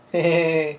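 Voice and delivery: high-pitched little giggle; acted giggle. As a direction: giggle as the girl character. Lillian laughs at herself.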